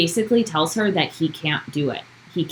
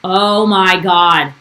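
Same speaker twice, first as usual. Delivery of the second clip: slow, louder gasp of disbelief; real surprise; 6 dB louder, much slower than usual. Real, not acted. Host reacting to a podcast reveal, slow and louder. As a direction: draw it out, stunned.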